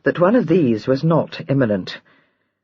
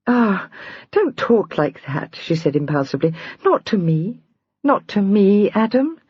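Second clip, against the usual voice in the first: throbbing, wrought up; 4 semitones higher than usual. Acted. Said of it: "The throbbing note in Julia's voice".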